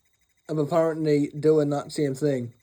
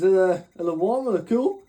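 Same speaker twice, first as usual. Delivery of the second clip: mocking; 2 semitones higher than usual. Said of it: "I said".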